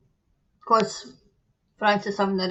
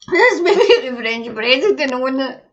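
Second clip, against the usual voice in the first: louder, laughing guess; laughing joke; 3 semitones higher, 8 dB louder than usual. Real, not acted. Joking to viewers about the French president, laughing. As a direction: tease it with a laugh.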